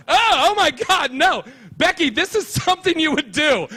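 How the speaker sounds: high accusing voice; accusing girl. Retold or imitated. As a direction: accuse Becky sharply. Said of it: "She goes".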